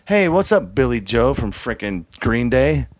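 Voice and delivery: mock starstruck hello to famous musicians. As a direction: gush like a starstruck fan meeting rock stars. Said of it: "Oh, starstruck".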